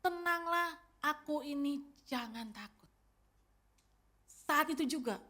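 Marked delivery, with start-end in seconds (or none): 0.0-2.9 gentle soothing words, fading softer at the end; calm the frightened disciples; calm reassurance. Retold or imitated. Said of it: "segera Yesus katakan apa".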